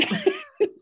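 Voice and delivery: a bright high burst of laughter; real laugh. Real, not acted. Laughing about her grandmother's sharp tongue, high real laugh.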